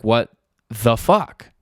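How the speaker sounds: slow mock outrage, each word spaced out; stretched, emphatic mock exasperation; exasperated disbelief. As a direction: act out a husband's drawn-out disbelief. Husband's third exasperated reaction.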